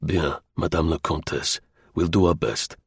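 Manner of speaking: low, soft, deferential man's voice; deep respect. A narrator's reading. Man assuring the countess he will help, deeply respectful. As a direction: speak humbly, with quiet deference. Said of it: "in a tone of deep respect".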